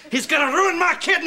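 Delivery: rising, high outburst; indignant complaint. Acted. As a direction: complain bitterly about your brother. Quarrel over donated kidney.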